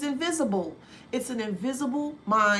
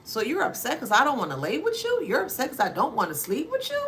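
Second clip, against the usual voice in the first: mock skeptical. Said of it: "for you to be like".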